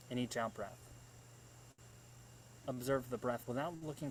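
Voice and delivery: measured meditation instructions with long pauses; guided meditation. Real, not acted. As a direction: guide listeners through breathing, leaving space between phrases. Leads one-minute guided meditation.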